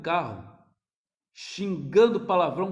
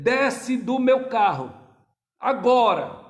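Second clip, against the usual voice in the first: stern order; 5 semitones higher, 8 dB louder, slower than usual. Retold or imitated. Preacher re-voices father's order.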